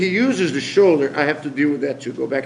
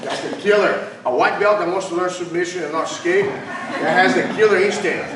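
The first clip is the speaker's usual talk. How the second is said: laughing; 3 semitones higher than usual. Real, not acted. Praising white belt's killer instinct.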